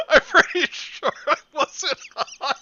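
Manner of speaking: high, loud, squeaky retake. Acted. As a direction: shriek it up in a squeaky voice. Rereads the line in silly voice.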